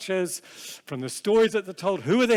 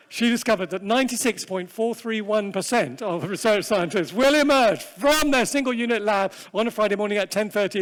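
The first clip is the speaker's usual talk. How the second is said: mock-grand announcement; 3 semitones higher, 4 dB louder than usual. Announcing mock research result.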